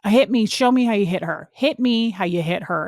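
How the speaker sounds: retold confrontation with a touch of force; mildly heated, insistent demand; intense challenge. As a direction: imitate an intense father daring someone. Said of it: "really intense".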